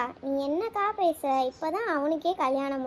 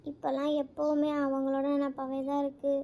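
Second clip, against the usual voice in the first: tearful; 3 dB quieter than usual. Acted. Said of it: "வந்ததுலேருந்து அழுதுகிட்டே இருக்க?".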